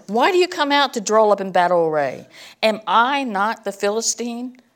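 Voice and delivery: giant's shout. Retold or imitated. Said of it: "he shouted at the ranks".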